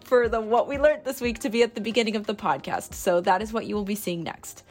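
bad mic audio; recorded without a proper mic; low quality stream. Real, not acted. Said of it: "I am sorry about the audio quality right now".

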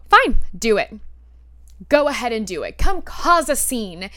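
loud opening, then a deliberate challenge; fed-up quoted comeback; retold angry dare. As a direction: dare him, punching the first words.

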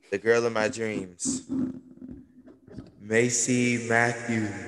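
slow with an echo effect; digital echo. Pretend. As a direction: echo every word. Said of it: "here comes the echo effect".

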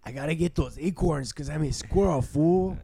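high-pitched squirrel with attitude; squirrel impression. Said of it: "like a good squirrel impression".

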